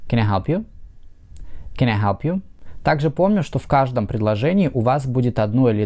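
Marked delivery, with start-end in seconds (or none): 0.1-0.7 can I help you with a rise at the end; rising question tune. Shown as a demonstration. Teacher models a yes-no question rising. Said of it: "восходящая интонация". 1.8-2.4 can I help you with a rise at the end; rising question tune. Shown as a demonstration. Teacher models a yes-no question rising. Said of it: "восходящая интонация".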